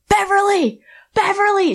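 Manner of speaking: high sing-song call across the ring; high mocking singsong; taunting call. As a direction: tease the opponent by name, high and playful. Taunting opponent from ring edge.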